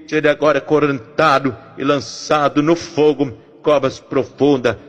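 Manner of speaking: urgent, rhythmic intercession, pressing each plea; fervent prayer. Acted. Pastor praying over the families listening, fervent rhythmic prayer. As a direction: pray it out like a pastor pleading for families.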